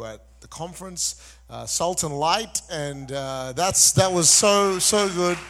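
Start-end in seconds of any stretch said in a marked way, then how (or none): 1.6-5.4 loud, higher and slower, bursting with enthusiasm; excited exclamation. Real, not acted. Pastor tells the crowd how good the conference was, loud and excited. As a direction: shout it out like it still thrills you.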